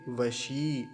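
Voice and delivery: वशी with the long ई drawn out; long vowel stretched. Shown as a demonstration. Teacher lengthens the ई in वशी for students. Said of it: "तो थोड़ा सा लंबा खींचेंगे".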